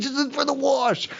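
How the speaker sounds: imitating the guy. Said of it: "he's like".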